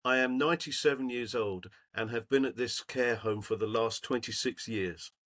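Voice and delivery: lightly voiced old lady's letter, read aloud; reading an old woman's thank-you note to the group.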